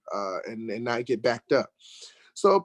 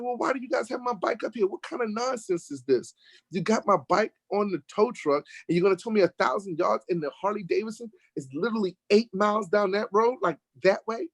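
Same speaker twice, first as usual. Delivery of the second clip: fast, much higher, exasperated; indignant retort; 6 semitones higher than usual. Retold or imitated. Telling the police the tow makes no sense, fast high indignant. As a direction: pile on the outrage quickly.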